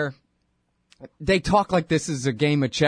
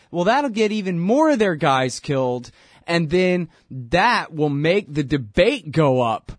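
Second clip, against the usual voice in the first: louder, sarcastic mock strategy pitch; louder, sneering send-up of the hawks' plan; mocking the hawks; 2 semitones higher, 3 dB louder than usual. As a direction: parody their plan with scorn.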